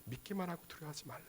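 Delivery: very soft, quick, calm reply; gentle acted voice of Jesus; hushed reassurance. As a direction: answer the outcry in a near-murmur. Voices Jesus answering the despair.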